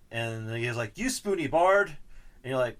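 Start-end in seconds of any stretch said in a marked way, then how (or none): 1.0-2.0 loud, much higher hammed-up shout; mock insult yell. Quoting the game's villain to a co-host, hammed-up yelled insult. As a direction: fling the insult like a cartoon villain.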